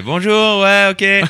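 high Parisian French accent; France French accent. Shown as a demonstration. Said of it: "Tu parles un peu, là, comme ça".

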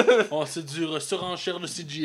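lightly mocking French accent; imitated French accent. Mimicking a critic griping about CGI, mock French accent. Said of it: "il y a un petit accent français".

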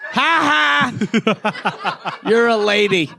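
put-on high, shouted Mexican boy accent. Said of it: "this is my impression of a Mexican boy".

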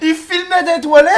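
high, slow incredulous question; can't believe it, drawn out; surprised. Real, not acted. Incredulous at filming toilets.

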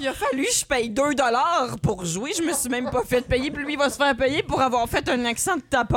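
an insulted actress venting; indignant rant. Acted. Offended actress ranting in scene.

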